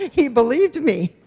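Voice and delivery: chuckling through the words; laughing. Real, not acted. Telling how her brother believed her, laughing. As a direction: laugh as you admit he fell for it.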